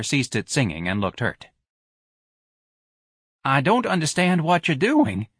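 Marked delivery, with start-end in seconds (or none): 3.4-5.3 high-pitched timid voice; bewildered manager. Acted. Office manager to Ignatius amid the riot, bewildered. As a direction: say it high, at a loss.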